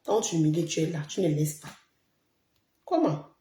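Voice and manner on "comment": high, sharp cry of disbelief; a stunned, rising outburst. Real, not acted. Streamer reacting to a message in shock, incredulous.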